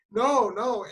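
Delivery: retold tearful protest. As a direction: plead like a crying kid. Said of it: "And I'm crying".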